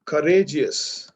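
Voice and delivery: courageous drawn out slowly and clearly; slow model word. Shown as a demonstration. Teacher slowly models courageous for the class. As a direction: say courageous slowly, one syllable at a time. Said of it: "Do I say courageouser".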